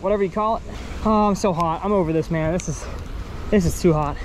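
ordinary talk, nothing marked

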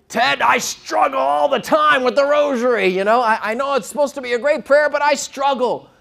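high, loud mock lament; exasperated confession. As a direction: confess it as a loud, high-pitched outburst, imitating a bishop. Acts out a bishop confessing his struggle.

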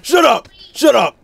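hammed-up furious furry; mock angry yell. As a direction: bark it at him. Furry character yelling at friend.

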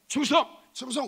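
high, short salute call; military salute shout. Shown as a demonstration. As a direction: snap out a recruit's salute. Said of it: "논산훈련소에서는 무조건 충성이었습니다".

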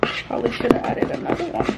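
whispered aside to herself; whisper to self. Real, not acted. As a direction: breathe it out as a private afterthought. Muttering to herself over coloring.

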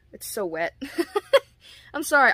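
laughing apology, quick and loud. Real, not acted. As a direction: giggle through the apology. Laughing at the wet mask.

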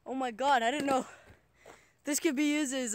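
breathless from the walk; out of breath. Real, not acted. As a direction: talk while catching your breath. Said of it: "I'm out of breath".

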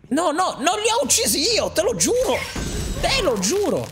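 high, earnest begging to a guard; mock pleading. Player begging the guard he is innocent, pleading high.

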